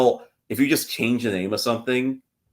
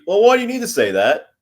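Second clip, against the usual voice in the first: high, loud British scolding impression; mock British parent; 12 semitones higher, 8 dB louder than usual. British parents answering son on free speech, mock British accent. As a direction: imitate a tut-tutting British parent. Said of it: "the response would be".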